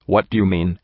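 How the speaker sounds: small, frightened, dawning horror; whisper-small and horrified; tiny horrified voice. A narrator's reading. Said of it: "in a tiny, horrified little voice".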